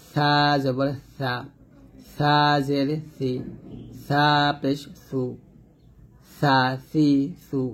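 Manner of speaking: tongue tip on upper teeth only for "সা, সি, সু"; soft lisped "সা". Shown as a demonstration. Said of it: "নিচে দাঁতে touch না করে".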